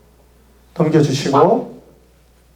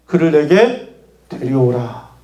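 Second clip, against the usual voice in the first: Jesus. Acted. Jesus orders the crowd to bring the man, commanding. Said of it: "예수님께서 사람들에게 명령했어요".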